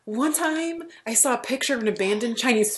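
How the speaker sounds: deadpan grand inspiration story; playful contestant impression; quoting Tamal. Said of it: "he was like".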